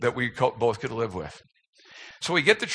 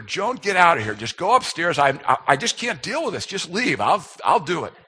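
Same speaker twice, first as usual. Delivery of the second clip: mock exasperated; 4 semitones higher than usual. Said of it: "So I finally had to say to her".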